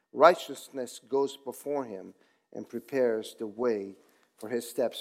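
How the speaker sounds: solemn Bible reading; scripture reading. Acted. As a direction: read the psalm with reverence. Reads the psalm aloud.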